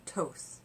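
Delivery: Toth with a T opening and long o, like "tohs"; alternative pronunciation. Shown as a demonstration. Listing ways she has heard it, alternative pronunciation. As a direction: say Toth to rhyme roughly with "both". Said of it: "I've heard it pronounced all those ways".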